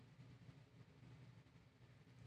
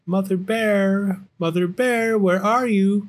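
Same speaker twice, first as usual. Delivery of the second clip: calling out; 10 semitones higher, 5 dB louder than usual. Acted. Little Bear looking for Mother Bear, calling high. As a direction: call out as a little bear cub. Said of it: "calls Little Bear".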